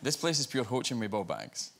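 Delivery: Scottish accent, repeating the phrase for a listener. Shown as a demonstration. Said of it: "I tried a Scottish phrase on her".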